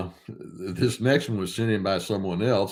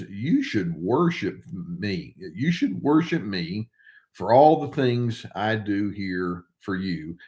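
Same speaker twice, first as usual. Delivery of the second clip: straight-faced sincere; 2 semitones lower, slower than usual. Shown as a demonstration. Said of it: "Said sincerely with a straight face".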